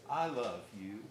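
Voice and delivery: tender I love you. Shown as a demonstration. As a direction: say it gently and lovingly. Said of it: "if you speak it with that tone of voice".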